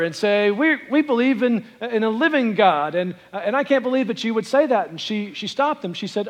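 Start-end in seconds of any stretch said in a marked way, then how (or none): 0.5-4.9 louder, pitched-up mild rebuke; a hint of Luther scolding his wife; rebuking. Luther rebukes his wife for saying God is dead, mildly indignant. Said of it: "he began to, to rebuke her".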